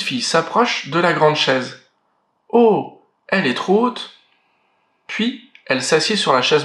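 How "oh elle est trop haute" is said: put-on a child who can't reach the chair; little girl. Girl finds chair too high.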